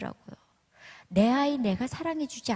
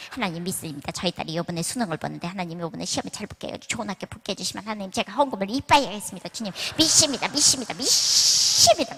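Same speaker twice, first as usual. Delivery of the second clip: mock fervent prayer. A mother bargains with God for her daughter's exam, mock fervent. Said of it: "막 이러면서 막".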